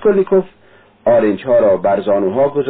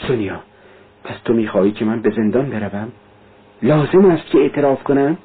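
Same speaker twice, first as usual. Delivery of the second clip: dazed. Acted.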